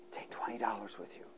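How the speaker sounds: softly voiced Spirit; low, soft inner voice; quiet prompting. Preacher quoting the Spirit's quiet instruction. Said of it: "the Holy Spirit said".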